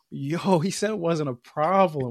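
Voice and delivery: incredulous, but not shouted; mock alarm. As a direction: replay being baffled and alarmed. Quoting own alarm at the repair.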